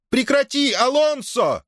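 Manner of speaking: very high-pitched cry of command; mother yelling. A narrator's reading. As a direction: cry out to break up the fight. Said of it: "завопила Маргарита". (истошный окрик матери)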